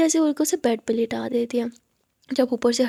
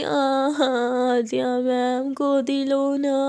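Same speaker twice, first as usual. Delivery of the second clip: put-on slow childish whine; much slower than usual. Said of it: "मुस्कान बोलती".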